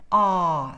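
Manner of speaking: R as a long low "ah"; relaxed open vowel. Shown as a demonstration. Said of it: "it's a very relaxed".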